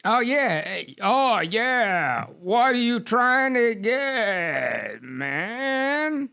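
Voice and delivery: put-on drawn-out, swooping Prasvalian dude accent; made-up Prasvalian accent. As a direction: stretch every word slowly in a dude-like Prasvalian accent. Player tries the dude accent.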